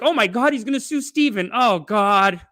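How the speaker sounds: high, loud fretting; mock panic. Host fretting that Steven gets sued, mock panic.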